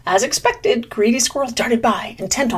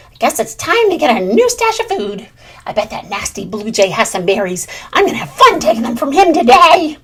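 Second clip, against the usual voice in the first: louder, gleeful plotting; scheming squirrel; 2 semitones higher, 6 dB louder than usual. Acted. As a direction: plan mischief, pleased with yourself. Squirrel plots to steal.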